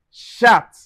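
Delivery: "chat" begun with a sh sound. Shown as a demonstration. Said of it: "So we pronounce like".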